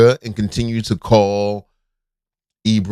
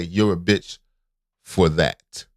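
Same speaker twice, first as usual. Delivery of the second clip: calm insult; 4 semitones lower, slower than usual. Shown as a demonstration. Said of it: "the proper way to say that".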